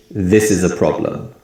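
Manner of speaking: strong "This", weak "is a", strong PROB- in "problem"; English sentence stress. Shown as a demonstration. Teacher demonstrating strong and weak sounds, with "This" and PROB- of "problem" stressed. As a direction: stress "This" and the first syllable of "problem", weaken "is a". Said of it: "more emphasis on the word this".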